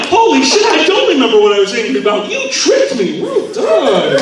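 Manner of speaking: hint of amazed. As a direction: marvel at being tricked. Retold amazed reaction.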